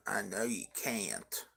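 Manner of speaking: soft spooky whisper. Real, not acted. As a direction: breathe it as a secret aside. Whispered aside to honey.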